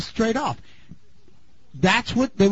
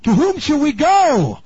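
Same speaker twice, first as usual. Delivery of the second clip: pleading disciples; 8 semitones higher, 6 dB louder than usual. Retold or imitated. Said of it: "And then they said".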